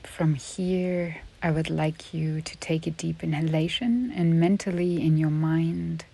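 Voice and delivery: unhurried yoga nidra guidance with long pauses; measured, spacious relaxation-teacher delivery; guided meditation. Real, not acted. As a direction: guide a listener gently into rest, leaving space between phrases.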